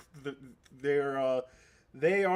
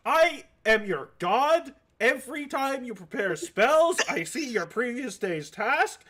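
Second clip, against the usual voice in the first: sassy god voice; 4 semitones higher than usual. Acted. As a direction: boast like a smug deity. GM voicing Green Man, sassy.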